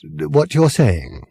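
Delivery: slow, deliberate question; careful and clear. A narrator's reading. Arthur double-checks what Fenchurch means, slow and careful. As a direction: spell it out slowly to be sure. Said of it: "trying to be absolutely clear".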